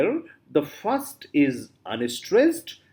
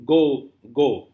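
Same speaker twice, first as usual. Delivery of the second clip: "go, go" as two equal, separate beats; both syllables stressed; 5 dB louder than usual. Shown as a demonstration. Teacher giving a spondee example, both syllables stressed. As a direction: give each "go" full weight. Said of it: "Both the syllables are stressed".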